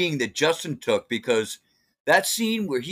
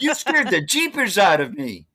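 put-on wholesome 1950s kid; 5 semitones higher than usual. Kid voice from training video.

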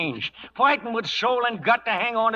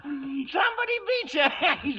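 laughing taunt; 8 semitones higher than usual. Acted.

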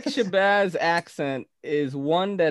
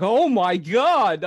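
slow, drawn-out and louder, a playful imitation; Nick Shabazz impression; 3 semitones higher, 4 dB louder, much slower than usual. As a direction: stretch it out slowly, hamming up the host's voice. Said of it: "I was like".

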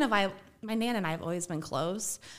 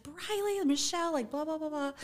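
mock scolding mom; 9 semitones higher than usual. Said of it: "she went off".

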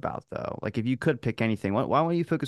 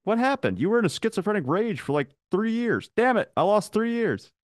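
dazed patient; 11 semitones higher than usual. Acted. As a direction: wake up confused and alarmed. Acted hospital wake-up scene.

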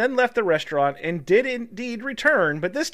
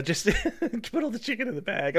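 cook's quote; 2 semitones higher, 6 dB quieter than usual. Retold or imitated. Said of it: "says the cook".

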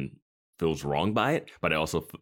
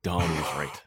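whispered dawning realization; stunned whisper; 4 dB quieter than usual. Retold or imitated. Retelling the character realizing she was right, stunned whisper. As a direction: whisper it as if it just hit you.

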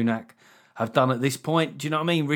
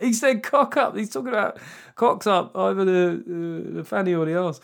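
mock outrage; 6 semitones higher than usual. Mock shocked commentary.

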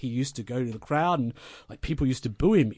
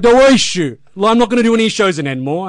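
higher, louder, brightly oblivious; loud cheerful reply; 6 semitones higher, 11 dB louder than usual. Retold or imitated. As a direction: shout back the same mistake. Mark repeating misunderstanding louder.

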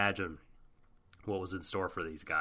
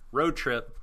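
road trip said louder in a Scottish lilt; leftover Scottish accent; 5 semitones higher, 4 dB louder than usual. Pretend. Dropping the Scottish accent mid-recap. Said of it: "stop doing the accent".

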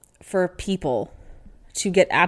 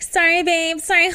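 higher, sing-song fake apology; mock pushy concertgoer; 10 semitones higher, 4 dB louder than usual. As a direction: mimic the careless woman squeezing past.

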